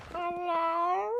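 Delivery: very high, drawn-out loud yowl; cat's hello. Retold or imitated. Imitating the cat's morning hello, high slow yowl. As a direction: yowl a long cat hello. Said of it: "do his hellos anymore".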